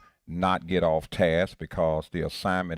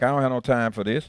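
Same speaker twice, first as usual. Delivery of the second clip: impatient; 5 semitones higher, 4 dB louder, faster than usual. Retold or imitated. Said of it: "Be like".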